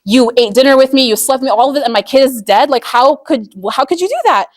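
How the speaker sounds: livid husband. Retold or imitated. Grieving father confronting his wife about their dead son, building outrage. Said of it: "And he was livid".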